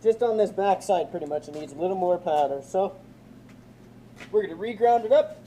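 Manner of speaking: muffled behind a respirator mask; through a respirator. Real, not acted. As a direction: talk through a face respirator. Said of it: "Hopefully you guys can hear me through this respirator".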